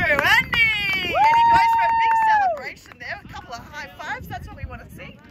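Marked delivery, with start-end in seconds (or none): 0.0-3.2 excited. Real, not acted. Commentator celebrates a goal.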